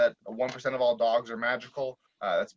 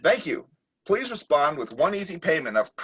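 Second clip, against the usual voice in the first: automated message; 3 semitones higher than usual. Acted. Automated phone message replies.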